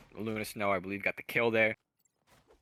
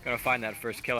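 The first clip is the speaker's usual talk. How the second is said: rapid-fire auctioneer patter; auctioneer talk; faster than usual. Real, not acted. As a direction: rattle it off like an auctioneer. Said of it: "I'm talking like an auctioneer".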